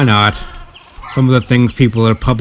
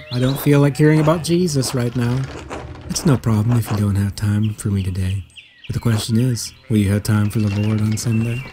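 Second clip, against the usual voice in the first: lightly voiced persuasive priest; soft priest voice; 5 dB quieter than usual. Voicing Father Thomas the priest.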